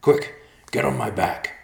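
high, loud urgent call; urgent command. A narrator's reading. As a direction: order them to flee at once. Urgent escape from danger.

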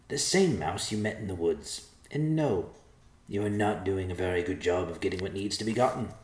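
a smug tiny mouse scolding them; snarky mouse. Acted. Narrator voices the mouse character.

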